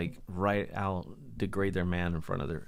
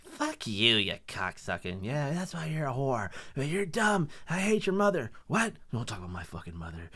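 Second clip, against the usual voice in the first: mock couple fight. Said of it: "they sit there in the truck".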